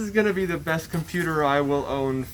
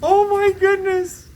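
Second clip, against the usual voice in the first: much higher and louder, stretched oh; joy spilling over at the gift; overwhelmed exclamation; 12 semitones higher, 7 dB louder than usual. Real, not acted. Sees parts are from friends.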